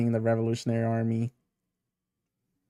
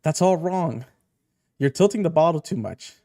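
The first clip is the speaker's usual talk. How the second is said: higher-pitched fussy correction; acted scolding; 4 semitones higher, 3 dB louder than usual. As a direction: correct a clumsy new parent. Scolding clumsy baby feeding.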